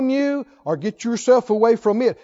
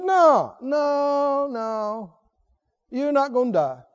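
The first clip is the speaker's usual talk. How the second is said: dismissive lying denial; 2 semitones higher, much slower than usual. Retold or imitated. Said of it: "Blatant lie".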